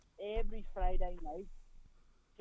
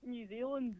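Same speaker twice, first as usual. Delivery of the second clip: put-on New Zealand accent; 3 semitones higher than usual. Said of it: "I love that accent".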